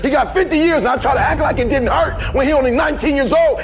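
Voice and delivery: full-force preaching over music; fired-up sermon delivery. Acted. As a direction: preach it, pushing hard from the pain.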